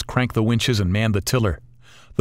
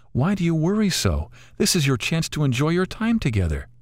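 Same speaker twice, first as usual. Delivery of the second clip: put-on wise old lady bird, higher voice, gently chiding; a kindly old bird coaxing them to enjoy it; 7 semitones higher than usual.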